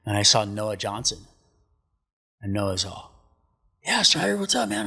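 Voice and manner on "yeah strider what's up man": high, breezy dude greeting; laid-back surfer greeting. Retold or imitated. Surfer buddy Noah greeting him out in the water, breezy and high.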